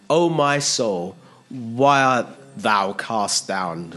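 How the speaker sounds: slow, drawn-out psalm quotation; King James recitation. Acted. Preacher quoting the psalmist to the troubled, King James recitation. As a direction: recite it slowly like old scripture. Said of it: "I said it in King James there".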